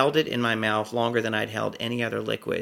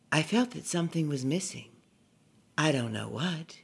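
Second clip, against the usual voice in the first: put-on bored little girl; 4 semitones higher, 4 dB quieter than usual. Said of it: "her bored assessment".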